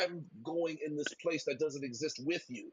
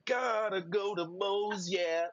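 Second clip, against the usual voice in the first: commercial jingle voice; 4 semitones higher, 3 dB louder, slower than usual. Retold or imitated. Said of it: "there used to be a lot of commercials".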